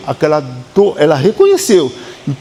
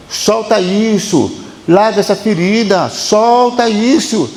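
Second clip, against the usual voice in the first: passado gritando; 5 semitones higher, slower than usual. Pretend. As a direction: plead ever higher until the last cry breaks out. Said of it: "O seu passado grita pra você soltar". (grito cada vez mais agudo: solta isso)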